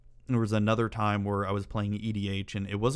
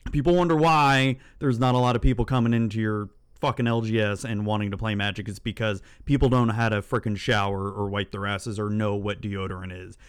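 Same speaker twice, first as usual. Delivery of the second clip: angry rant; 5 dB louder than usual. Real, not acted. Ranting about smelly players.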